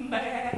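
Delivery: imitated "bêê"; goat bleat. Shown as a demonstration. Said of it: "Je t'ai bien vu faire la chèvre".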